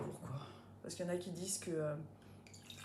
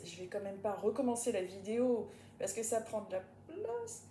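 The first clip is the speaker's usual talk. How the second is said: ordinary delivery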